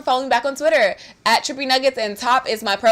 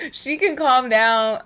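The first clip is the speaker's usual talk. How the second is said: normal talking voice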